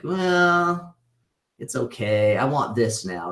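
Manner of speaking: shrugging it off after getting the thing; mildly mock-bored self; underwhelmed inner voice. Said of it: "then I get it and it's like".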